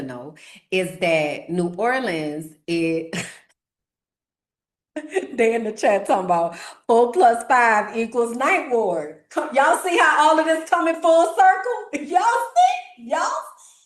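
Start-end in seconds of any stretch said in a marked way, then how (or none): 5.0-13.8 high, giggling squeals; laughing. Real, not acted. Streamer cracks up at chat's Ninth Ward joke, laughing. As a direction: laugh through the words at the joke.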